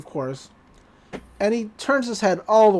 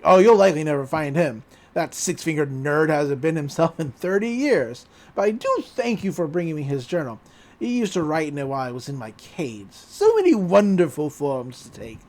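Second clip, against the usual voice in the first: lowered, lightly played villain voice; gloating shapeshifter; 4 semitones lower than usual. Shapeshifter taunting the boy about the author, gloating. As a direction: gloat as the monster, pitched down.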